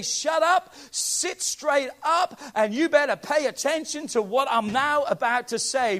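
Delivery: loud, emphatic imagined rebuke; stern demand. Acted. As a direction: order them sharply to pay attention. Acting out the writer's stern demand.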